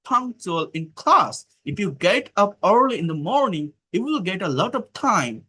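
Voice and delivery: very slow, word by word, as if dictating to a class; slow dictation reading. Shown as a demonstration. Teacher reading a conversation to students, slow dictation. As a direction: spell the dialogue out slowly for learners. Teacher reads dialogue slowly aloud.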